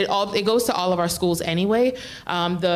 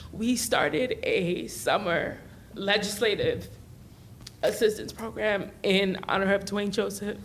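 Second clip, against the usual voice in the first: holding back tears; 4 dB quieter than usual. Real, not acted. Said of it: "I'm gonna try not to cry".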